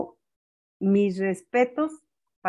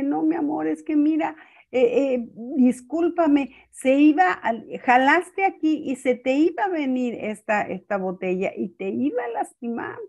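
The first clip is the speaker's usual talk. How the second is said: put-on higher, gentle apologising to a small child; tender apology; 5 semitones higher than usual. Grandmother soothes crying granddaughter. (abuela que consuela a su nieta que llora, con ternura y voz aguda)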